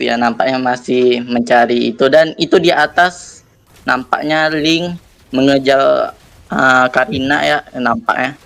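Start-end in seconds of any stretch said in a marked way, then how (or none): 2.1-6.1 "mengejar" with r said as l; cadel r. Real, not acted. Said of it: "aku cadel".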